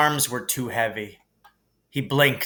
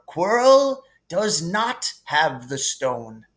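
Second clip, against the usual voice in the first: higher, gently amused headmaster voice; kindly old headmaster; 4 semitones higher, slower than usual. Acted. Dumbledore calming Harry in the hospital wing, gently amused. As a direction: soothe the boy like a kindly wise old wizard.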